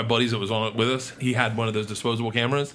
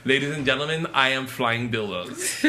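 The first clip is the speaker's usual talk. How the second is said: grand announcement. Retold or imitated. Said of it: "He goes".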